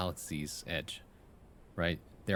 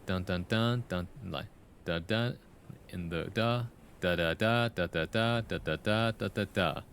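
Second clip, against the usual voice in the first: "da da da" in threes, beat on the last; anapestic beat. Shown as a demonstration. Explaining anapests to the poet, chanted rhythm. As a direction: chant "da da da" as a rolling triple. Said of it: "This is".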